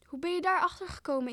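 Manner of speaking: taken aback, voice jumping up; startled. A narrator's reading. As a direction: ask it as a shocked mother. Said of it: "keken haar geschrokken aan".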